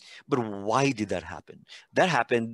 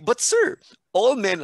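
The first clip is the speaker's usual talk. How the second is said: much higher, louder mocking girl's voice; mimicking a student; 11 semitones higher, 6 dB louder than usual. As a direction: squeak it out like the teasing student.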